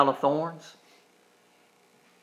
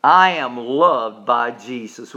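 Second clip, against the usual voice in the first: slow affirmation; 3 semitones lower, 5 dB louder, slower than usual. Shown as a demonstration. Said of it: "Would you say that with me".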